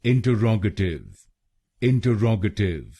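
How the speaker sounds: इंटरोगेटिव with the third syllable रो stressed; stress on ROG. Shown as a demonstration. Teacher shows stress on the third syllable: stressed demo. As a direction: hit रो in इंटरोगेटिव. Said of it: "तीसरे शब्दांश पर यानी आरआरओजी पर जोर डालना है".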